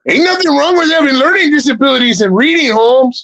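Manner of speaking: lightly voiced tough guy, teasing; mock gangster voice. Mocking the chat in a high put-on voice.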